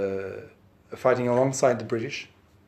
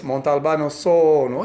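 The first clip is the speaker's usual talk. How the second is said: Sicilian word order; 2 semitones higher, 5 dB louder than usual. Retold or imitated. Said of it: "that's the way Sicilians talk".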